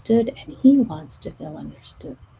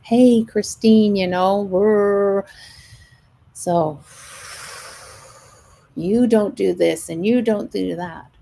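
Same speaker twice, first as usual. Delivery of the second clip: louder, slowed accusing voice; attacking partner; 2 semitones higher, 4 dB louder than usual. Retold or imitated. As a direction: lay into her like an upset partner. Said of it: "start attacking us and telling us".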